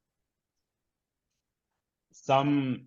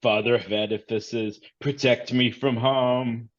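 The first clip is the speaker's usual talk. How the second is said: muttered prayer; 2 semitones higher than usual. Acted. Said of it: "clutches her hard hat and says".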